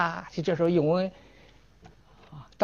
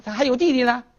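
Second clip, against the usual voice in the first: indignant retort; 8 semitones higher, 3 dB louder, faster than usual. Acted. Scholar retorts again.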